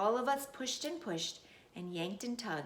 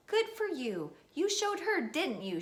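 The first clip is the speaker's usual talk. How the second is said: grandma yelling; 8 semitones higher than usual. Acted. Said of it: "she yelled".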